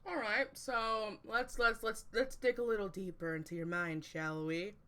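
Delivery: sultry noir radio host; goofy noir announcer, half-serious sultry. Pretend. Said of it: "how's my radio voice".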